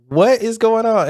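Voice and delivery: slow, high-pitched bewilderment; retold exasperated protest; mock exasperation. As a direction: draw it out, utterly baffled. Exasperated punchline of retold quarrel.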